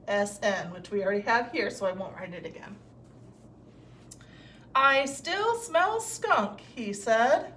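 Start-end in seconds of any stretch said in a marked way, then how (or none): 4.7-6.6 slow, drawn out so each S blend is heard; slow blend reading. Shown as a demonstration. Teacher to class, slowly stretching the words. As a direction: stretch the sentence for young listeners. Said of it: "What do you hear the S blend?".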